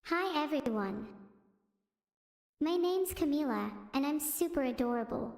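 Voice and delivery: lightly voiced cutesy self-introduction; impression of Camila. Streamer does a requested impression of Camila, cutesy. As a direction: play up being adorable, only a touch. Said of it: "do a Camila impression".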